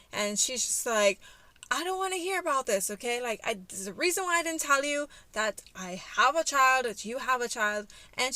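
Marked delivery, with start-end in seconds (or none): 1.7-7.9 imitating an exasperated ex, pitched up; higher, pressing mock-argument voice; defensive retort. Mother shuts down her ex over the child, defensive.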